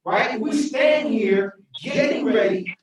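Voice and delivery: mayor defending her record to council, emotional shout; impassioned. Real, not acted. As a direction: fight for the employees with rising passion. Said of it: "I get a little emotional".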